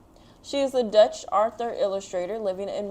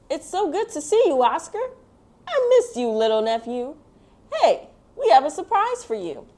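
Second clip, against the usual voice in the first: much higher and louder happy welcome; excited greeting; 8 semitones higher, 9 dB louder than usual. Acted. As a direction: gush over a nephew you missed. Relative greets nephew excitedly.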